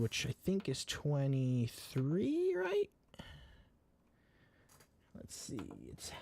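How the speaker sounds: slow unvoiced whisper to self. Real, not acted. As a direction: whisper it while checking. Muttering while checking settings.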